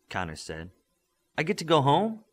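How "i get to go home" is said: high, eager lift; can't believe his luck; excitement. A narrator's reading. Midas hearing he can go home, excited and high. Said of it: "Midas said with excitement".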